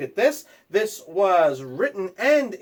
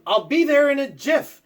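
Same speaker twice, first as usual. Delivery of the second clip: yelling; 10 semitones higher, 5 dB louder than usual. Acted. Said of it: "You yelled".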